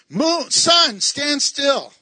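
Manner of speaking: high, loud command; commanding call. Retold or imitated. Preacher voicing Joshua calling to sun and moon. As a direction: order the heavens to halt.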